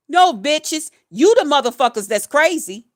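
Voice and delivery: loud, scornful comeback; angry retort. Real, not acted. Answering those calling her crazy, loud angry retort. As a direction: throw it back at them.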